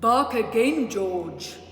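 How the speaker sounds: loud, commanding call to the puppy; firm command. Acted. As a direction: order the dog to bark, loudly. Mother orders puppy to bark.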